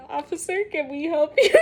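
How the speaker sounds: hushed, polite bank-clerk question to the officer; aunt's polite question. Retold or imitated. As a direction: ask it softly, like a nervous clerk. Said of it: "my aunt is just".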